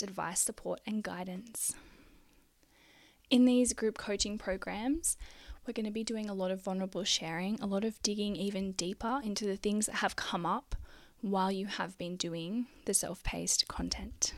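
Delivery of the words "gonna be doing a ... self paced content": short of breath, slowing down; breathless, running out of air. Real, not acted. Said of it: "I'm really short of breath today".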